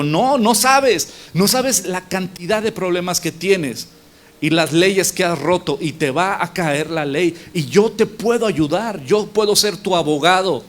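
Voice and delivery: insistent. Retold or imitated. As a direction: press a stubborn friend to accept help. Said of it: "El amigo le insistió".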